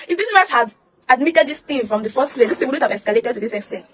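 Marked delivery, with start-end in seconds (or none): none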